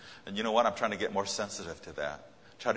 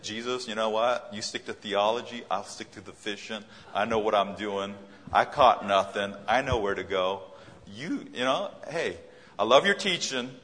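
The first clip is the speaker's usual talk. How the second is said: cocky refusal; 6 dB louder than usual. Acted. Peter imagined refusing Jesus.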